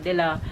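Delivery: De La said as deh-la, with an open e; mispronunciation with "deh". Shown as a demonstration. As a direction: give De La an English "deh" start. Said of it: "it's not De La".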